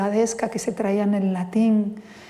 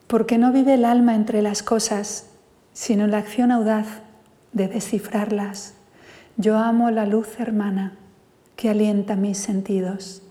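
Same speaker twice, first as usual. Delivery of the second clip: poem recital. Acted. A poet reads his poem Contigo to the audience, measured recital.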